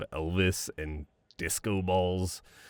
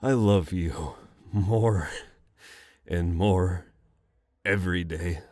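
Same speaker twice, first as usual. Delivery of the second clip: tearful; 2 semitones lower than usual. Real, not acted. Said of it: "Keep it together".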